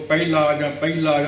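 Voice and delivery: ਪਹਿਲਾ said as pai-la, h dropped; wrong pronunciations. Shown as a demonstration. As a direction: misread ਪਹਿਲਾ in two syllables. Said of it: "ਇਹ ਸਭ ਗਲਤ ਨੇ".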